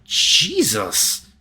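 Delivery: loud, high shocked cry; startled exclamation. Real, not acted. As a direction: gasp it out in shock. Reader reacting to shattered light.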